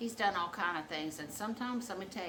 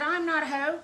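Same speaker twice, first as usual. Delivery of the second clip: higher, louder mock scolding; indignant telling-off; 9 semitones higher, 9 dB louder than usual. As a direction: put him in his place, re-enacted. Acted telling-off.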